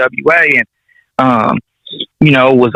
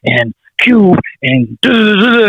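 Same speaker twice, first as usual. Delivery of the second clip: higher-pitched imitation of a rambling dad; dad talking fast; 8 semitones higher than usual. Dad on the phone naming names about the deal, imitated fast talk. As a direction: rattle off names into a string of duhs. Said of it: "And he talking fast".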